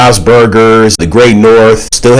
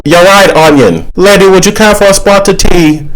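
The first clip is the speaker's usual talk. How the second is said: high, courteous mock British accent; Apple with British accent; 9 semitones higher than usual. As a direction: order tea in hammed-up British. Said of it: "talking with British accents".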